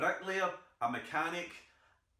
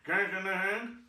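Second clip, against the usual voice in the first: secret tradesman code; 4 semitones higher, 3 dB louder than usual. Retold or imitated. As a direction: murmur it like a secret password. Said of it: "strange surreal foreign language".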